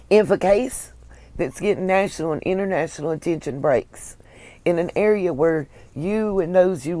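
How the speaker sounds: unvoiced whisper on "If a case". Real, not acted. Hushing the chat about the case, whispered. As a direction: drop to a hushed whisper.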